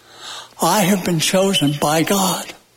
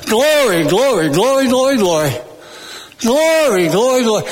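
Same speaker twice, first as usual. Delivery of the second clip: lightly voiced grandmother, chanting repeats that start higher; imitated praising grandmother; 4 semitones higher than usual. Preacher remembers his grandmother walking around, imitated praise chant. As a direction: repeat it in a rolling run, first word lifted. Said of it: "my grandmother walking around saying".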